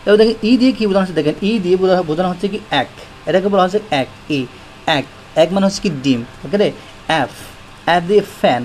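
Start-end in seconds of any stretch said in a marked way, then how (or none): none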